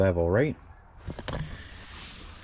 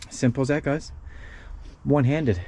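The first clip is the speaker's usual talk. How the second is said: out of breath. Real, not acted. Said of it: "I'm out of breath a little bit".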